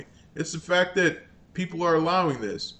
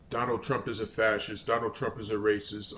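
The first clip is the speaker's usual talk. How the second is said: mock parroting; 5 semitones lower, 7 dB quieter than usual. Parroting Democrats' claims.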